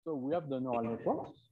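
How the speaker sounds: off-mic, distant and faint; speaking far from the microphone; from another room. Real, not acted. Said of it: "can't hear you from here".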